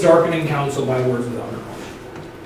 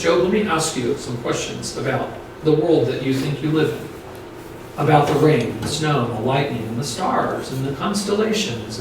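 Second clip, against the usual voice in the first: gentle questioning; 4 dB quieter than usual. Shown as a demonstration. God gently questioning Job instead, soft and kind. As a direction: invite him in kindly, no edge. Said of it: "He doesn't say it like that".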